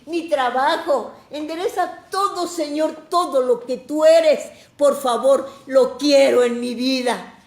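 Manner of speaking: high, loud, insistent pleading; fervent preacher crying out in prayer; impassioned prayer plea. Acted. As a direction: beg God urgently, hammering each request. Voicing an impassioned plea to God.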